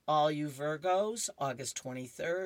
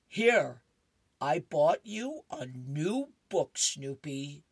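eager Charlie Brown; 5 dB louder, slower than usual. Acted. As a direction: hand over the gift proudly. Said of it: "and he says".

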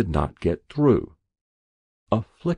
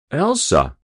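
waking patient; 7 semitones higher, 5 dB louder than usual. A narrator's reading. Patient wakes, calls wife.

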